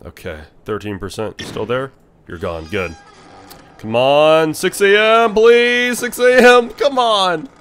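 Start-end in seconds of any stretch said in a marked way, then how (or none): 3.8-7.5 pleading higher and louder as it builds; desperate pleading. Real, not acted. Gamer begging the night clock to reach six, rising plea. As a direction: beg the clock to hurry, rising tension.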